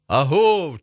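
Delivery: high, loud halloo; distant answering call. A narrator's reading. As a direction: call back as if from far off. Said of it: "чується десь далеко праворуч".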